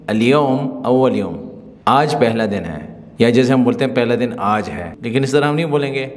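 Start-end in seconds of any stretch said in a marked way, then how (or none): 0.1-1.4 slow model sentence. Shown as a demonstration. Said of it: "عربی میں ہم بولیں گے".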